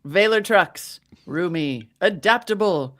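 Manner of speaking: put-on old-time radio ad voice in mid-Atlantic accent. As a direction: read it like a thirties mid-Atlantic announcer. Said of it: "It's either mid-Atlantic ac-, accent or slightly British".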